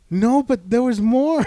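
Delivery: slow, protesting insistence; a stubborn old lady pleading; insistent grandma. Retold or imitated. Grandma protesting the season ended, slow and insistent. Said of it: "And she's like".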